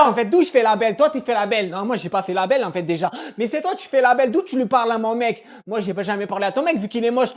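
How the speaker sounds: catfight. Acted. Dispute de filles jouée.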